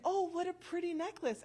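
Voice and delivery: gushing compliment. Retold or imitated. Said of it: "And I go over and say".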